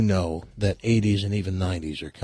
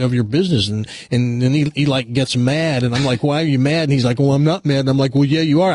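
dramatized overheard quarrel. Retold or imitated. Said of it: "dramatization of what it sounded like".

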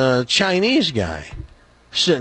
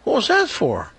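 higher, lightly acted protest; protesting joke character; 8 semitones higher than usual. Jewish guy to the man who punched him, lightly acted protest. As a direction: play a punched man asking why, pitched up. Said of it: "The Jewish guy gets up and goes".

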